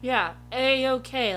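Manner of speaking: dry air-quote A-okay; slow, skeptical A-okay; sarcastic. Real, not acted. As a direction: say A-okay with ironic scare quotes. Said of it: "Let me put some air quotes around that".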